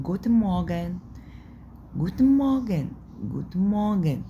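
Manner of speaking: high, bright "جوتن مورجن"; lively demo. Shown as a demonstration. Teacher acting a cheerful morning greeting, high. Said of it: "لما بنيجي نقول".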